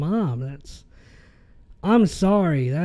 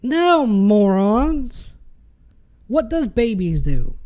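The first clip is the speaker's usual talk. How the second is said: scornful retort; 4 semitones higher, 3 dB louder, slower than usual. Real, not acted. Scornful retort to quoted excuse.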